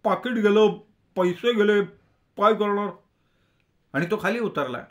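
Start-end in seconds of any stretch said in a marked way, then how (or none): 0.0-2.9 high-pitched, halting lament; high, despairing muttering to himself; muttered lament. A narrator's reading. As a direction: bemoan it in short pieces with pauses. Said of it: "बघत तो पुटपुटला".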